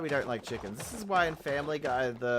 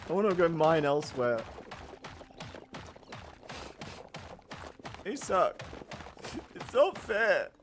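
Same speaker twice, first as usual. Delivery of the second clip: whiny complaint; 6 semitones higher, 5 dB louder than usual. Real, not acted. Whining about being bullied.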